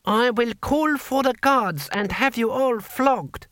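high, slow indignant shout, slightly held back; pompous, high-pitched outrage; shouted threat. A narrator's reading. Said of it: "shouted Six Beneficent Winds, his temper moderated slightly".

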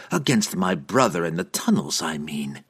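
soft, teasing correction; sly, teasing afterthought. Acted. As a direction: let the threat hang playfully. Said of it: "she added in softer, teasing tones".

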